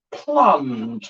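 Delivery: drawn-out comic catchphrase, pitch swooping down; Miranda's mum. Retold or imitated. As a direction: let the word slide down slowly, imitating a sitcom mum. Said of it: "like that".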